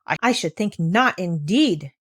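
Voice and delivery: a touch of exasperated huffing; mild exasperation. Acted. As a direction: sniff at the answer, exasperated. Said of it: "the exasperated lady".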